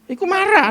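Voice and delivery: high, hammered statement; preacher driving the point home; punched line. Acted. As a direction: land it like a punchline. Punchline repeated.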